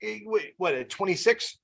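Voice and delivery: playful fake disbelief about their age; mock surprise. Shown as a demonstration. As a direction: tease them gently, as if shocked. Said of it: "I'll make a joke like".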